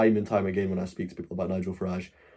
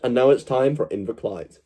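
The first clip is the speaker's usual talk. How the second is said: BBC-Ansage nachgemacht. Shown as a demonstration. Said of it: "Does it work better if you hold my nose".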